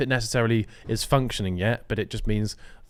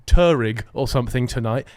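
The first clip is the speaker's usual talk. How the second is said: rallying war cry; 2 semitones higher, 5 dB louder than usual. Pretend. Acts the in-game rallying cry.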